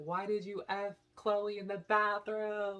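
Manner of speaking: mock, furious, angry, high-pitched scream. Retelling a fight in the kitchen, quoting what she screamed at a guy: retelling her own scream. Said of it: "I basically scream and I'm like".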